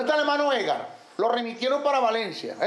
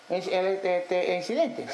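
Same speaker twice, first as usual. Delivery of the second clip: stumbling believer; 4 semitones lower, slower than usual. Acted. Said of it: "como un teatro".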